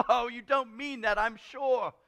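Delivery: high, loud cheerful protest; Scrooge's nephew. Acted. Nephew coaxes his grumbling uncle, high cheerful voice. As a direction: coax him in a lifted voice. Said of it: "said Scrooge's nephew".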